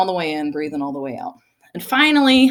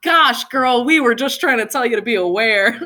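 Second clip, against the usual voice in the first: laughing spirit voice; 6 semitones higher, 4 dB louder than usual. Retold or imitated.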